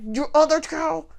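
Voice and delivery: put-on low, hushed "Your other child?" said under the breath; hushed aside. Stepmother-in-law nudging her husband mid-speech, hushed. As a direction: murmur it so only he hears. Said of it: "she said it just low enough that I couldn't hear her".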